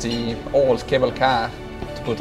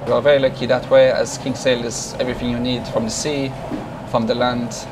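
speaking English with a Swiss German accent; natural Swiss German accent, relaxed. Real, not acted. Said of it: "I'm from Switzerland initially".

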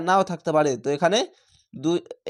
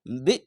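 "বি" cut short with a push; jolting emphasis; 4 semitones lower than usual. Shown as a demonstration. Teacher isolates the syllable for learners, jolted. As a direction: push "বি" and stop at once. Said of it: "ঝোঁক মেরে পড়েছিলাম".

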